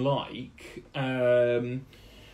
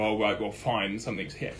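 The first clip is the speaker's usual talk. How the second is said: grudging acceptance; 4 semitones lower than usual. Acted. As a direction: give in reluctantly, slightly lower. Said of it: "to basically accept grudgingly".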